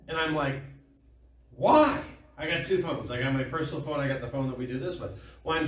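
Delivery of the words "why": high, loud mock protest; indignant retort. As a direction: shoot back a high-pitched why. Retold retort to frantic demand.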